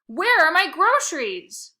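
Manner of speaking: put-on furious old woman demanding her bags; shrill demand. Missus Prince demanding her groceries, loud shrill slow fury. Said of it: "demanded Missus Prince".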